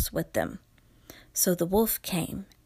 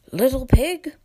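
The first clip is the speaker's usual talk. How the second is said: wolf voice; 4 semitones higher, 8 dB louder than usual. Acted. Wolf calling the pig.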